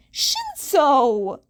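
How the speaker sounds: loud warning call of a name; sharp scolding call. Acted. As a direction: snap his name to stop him. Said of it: "Uraraka elbowed him".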